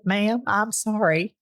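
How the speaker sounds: slow, light Texas drawl. Retold or imitated. Paramedics to a woman in labor, imitated Texas drawl. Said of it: "in their Texas drawl".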